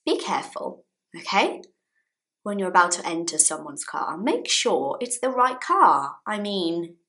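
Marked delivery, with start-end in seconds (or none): 0.1-1.6 whispered warning. Real, not acted. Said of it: "advice to viewers".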